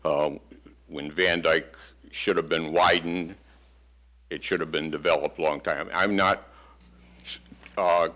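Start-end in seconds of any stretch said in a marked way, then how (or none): none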